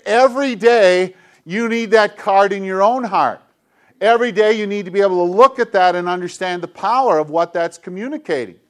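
ordinary delivery

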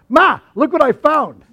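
put-on high, loud, drawn-out kid's call; proud calling out. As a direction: imitate a boy showing off his find. Boy proudly calling his mother, retold.

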